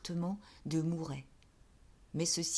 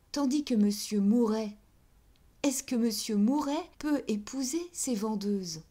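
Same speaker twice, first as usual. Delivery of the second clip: louder and higher, good-humoured; amused; 4 semitones higher, 5 dB louder than usual. Acted. Pauline gently laughs at Denise's reasoning, raised and bright. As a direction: explain it with a fond laugh.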